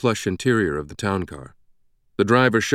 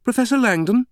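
high, raised British voice, rising into a question; sing-song British call; 4 dB louder than usual. A narrator's reading. British woman hailing Langdon across the tarmac, high sing-song call. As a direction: hail someone in a lilting British accent. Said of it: "a sing-song British voice shouted from across the tarmac".

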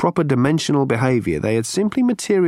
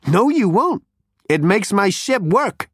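higher, brash Zaphod voice; 8 semitones higher, slower than usual. A narrator's reading.

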